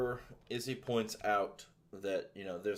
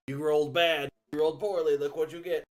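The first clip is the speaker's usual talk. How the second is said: gloating villain, louder; mad scientist; 8 semitones higher, 11 dB louder than usual. Acted. GM gloats at a bad roll.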